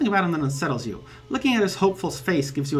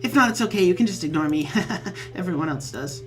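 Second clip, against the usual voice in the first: high, eager, giggly fan voice; bubbly troll fan; 6 semitones higher than usual. Acted. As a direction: gush like an overexcited new friend. Troll's chat message read aloud.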